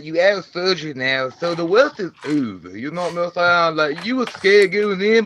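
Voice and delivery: lightly voiced Slender Man character. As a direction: give a laid-back pep talk as Slender Man. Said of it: "Slender Man well wishes for Deborah Grover".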